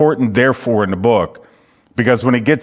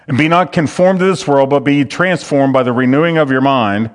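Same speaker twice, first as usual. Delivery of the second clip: brisk, run-on verse reading; slightly hurried scripture reading; read over quickly; 2 semitones higher than usual. Shown as a demonstration. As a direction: read the verse straight through without dwelling. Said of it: "you read over that real quick".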